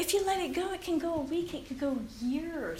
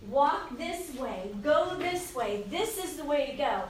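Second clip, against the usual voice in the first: calm reassuring voice of God. Retold or imitated. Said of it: "he will say".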